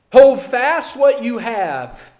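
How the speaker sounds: slow, weighted repeat with stress on hold; slow emphatic repeat. Shown as a demonstration. Preacher repeating the command slowly for emphasis. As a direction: draw each word out to drive it home.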